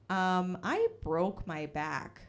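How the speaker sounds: slow, mock-rude comeback; imitated rude reply. Rude stranger answering a compliment, slowly and curtly. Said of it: "she was so rude back".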